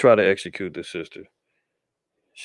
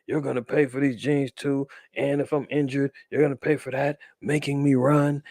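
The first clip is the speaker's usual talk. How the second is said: mock whining cop; 5 semitones higher than usual. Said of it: "he's crying and, and talking about".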